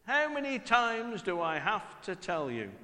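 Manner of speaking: the same "How many times do I have to tell you?" at normal volume, resigned; weary parent. Retold or imitated. Parent repeating the scold, resigned and weary. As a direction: drop the volume and let it sound tired. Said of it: "that immortal phrase".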